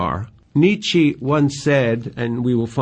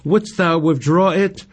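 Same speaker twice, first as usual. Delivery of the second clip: higher, pleading question; a hint of Romeo's anguish; anguished cry; 5 semitones higher than usual. A narrator's reading. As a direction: ask it in lovesick anguish. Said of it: "cries out in anguish".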